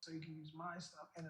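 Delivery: audio cutting out; tape dropouts. Real, not acted. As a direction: voice dropping out of the stream. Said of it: "The audio keeps cutting out".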